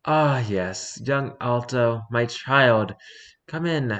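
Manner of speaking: lightly voiced gremlin, rising at the end; a hint of a mischievous gremlin; chaotic gremlin voice. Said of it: "I'm gonna give him the chaotic gremlin voice".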